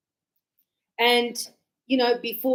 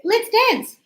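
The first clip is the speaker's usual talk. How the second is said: high, firm command; tell, don't ask; man telling a woman to dance; 10 semitones higher, 3 dB louder than usual. Shown as a demonstration. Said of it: "they go".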